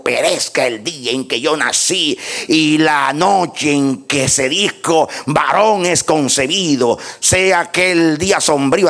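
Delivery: ringing pulpit reading of a lament; scripture declamation. Acted. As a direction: proclaim Job's curse, drawing out the phrase ends. Declaims Job's curse from scripture.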